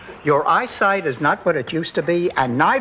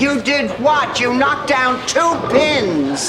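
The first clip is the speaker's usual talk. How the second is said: surprised shout; 8 semitones higher, slower than usual. Real, not acted. Reacts to bowling news.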